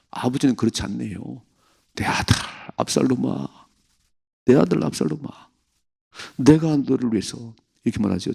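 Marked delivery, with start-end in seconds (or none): 2.0-7.6 a touch of a grieving father calling out; mild lament. Retold or imitated. Preacher voicing King David mourning Absalom, mildly grieving.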